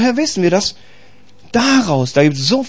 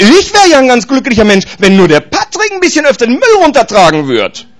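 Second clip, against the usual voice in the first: mock whiny wife; 5 semitones higher, 3 dB louder than usual. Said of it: "Die Frau sagt".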